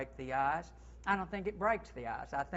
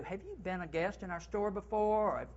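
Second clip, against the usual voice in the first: higher, bright, glad welcome; welcoming greeting; 4 semitones higher than usual. Shown as a demonstration. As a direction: make the guest feel wanted. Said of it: "What about if we get to".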